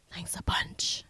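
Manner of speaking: soft, whispered sarcastic thanks; sarcastic mutter. Real, not acted. Host thanking Insta for the trauma, sarcastic whisper. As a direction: drop to a dry near-whisper.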